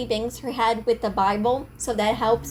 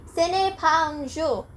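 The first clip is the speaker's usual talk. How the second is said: attempted French; 5 semitones higher than usual. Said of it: "see my attempt".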